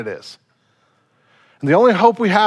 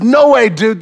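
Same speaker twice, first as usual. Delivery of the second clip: loud, raised-pitch objection; protesting; 4 semitones higher, 5 dB louder than usual. Retold or imitated. Peter objects to what Jesus foretells, loud protest. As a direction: push back hard in disbelief.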